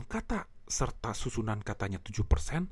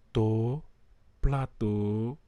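teasing call; 4 semitones lower, much slower than usual. Shown as a demonstration. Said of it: "dia godain saya".

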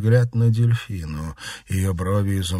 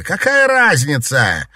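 furious outburst; 8 semitones higher, 9 dB louder than usual. Acted. Daughter furiously rejecting her mother.

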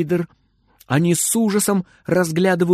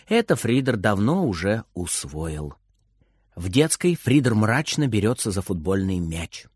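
ordinary delivery, nothing marked

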